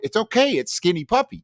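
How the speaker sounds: high, lilting mock reassurance; high sing-song it's okay; mock soothing girl. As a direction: soothe him like it's nothing. Girl calmly reassuring him.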